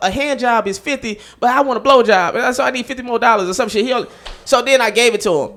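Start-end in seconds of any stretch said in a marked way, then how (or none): 0.1-3.8 higher stammering friend voice, speeding up; imitating friend. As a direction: rush the excuse in a high voice. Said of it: "He was like".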